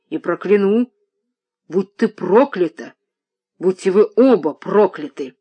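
громче, медленно, с горькой издёвкой; проклясть дочь в исступлении; гневное проклятие. Acted. (отец в гневе проклинает дочь: исступлённое проклятие)

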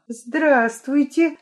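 drawn out to win Vika over; ingratiating. A narrator's reading. Lyolya greets the film girl, slow and fawning. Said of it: "заискивающе сказала Лёля".

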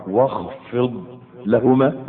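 very slow, rising واخفض لهما; drawn out. Shown as a demonstration. Preacher re-reciting the verse slowly, rising. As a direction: draw out واخفض لهما, lifting on لهما. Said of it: "ها؟".

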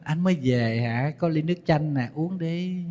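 lightly voiced soft, sweet wife; sweet and gentle. Shown as a demonstration. Wife greeting her guilty husband at the door, gently sweet. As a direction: greet him softly, all sweetness. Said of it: "Mình vẫn ngọt ngào, vẫn nhẹ nhàng".

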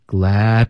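"glad" cut off with the tongue tip held at the teeth; dropped D. Shown as a demonstration. Teacher showing the omitted d, abrupt stop. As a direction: stop "glad" dead without releasing the d. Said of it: "省略的方式最好咬舌尖".

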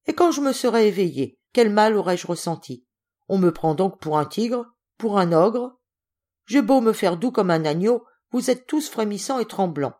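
testy, exclaiming indignation; barely contained anger. Acted. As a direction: protest as if unjustly feared. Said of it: "une colère mal contenue".

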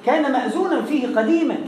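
ordinary delivery

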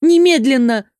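a burst of impatient anger; angry demand. A narrator's reading. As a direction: demand it, close to shouting. Furious heroine demands action at once.

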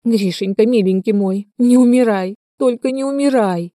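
a mother wailing over her son; wailing lament. A narrator's reading. Mother wailing over her dying son, rising pleading lament. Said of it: "запричитала".

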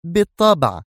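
terse high-pitched answer; curt. A narrator's reading. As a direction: answer shortly, brooking no question. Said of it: "انعقد حاجباها في شدة وهي تجيب". (باقتضاب)

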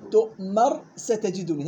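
تؤمر said slowly, its ra swallowed; students' reading. Retold or imitated. Teacher imitating students' misreading, slow. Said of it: "هيك بقرأ الطلاب".

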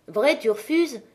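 put-on mildly taunting question to the girl; provoking. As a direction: needle her gently, just a hint of a dare. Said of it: "de son air provoquant".

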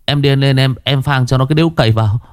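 a flustered thug tripping over his words to the boss; stammering henchman. Acted.

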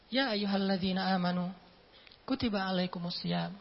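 soft, unhurried Quran recitation; calm recitation. Shown as a demonstration. Preacher reciting the fasting verse, calm and soft. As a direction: recite it gently and calmly. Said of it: "Makanya bacanya jangan".

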